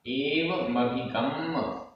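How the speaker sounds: एवमभिगम्य slow, with half म then full म; careful pronunciation demo. Shown as a demonstration. Teacher repeating the word for students, slow and precise. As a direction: stretch एवमभिगम्य so the half म is heard. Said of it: "यहाँ पर आधा मा पूरा मा।".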